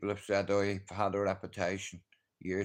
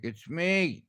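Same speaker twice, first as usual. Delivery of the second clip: fake innocent; 9 semitones higher than usual. Fake friendly at the door.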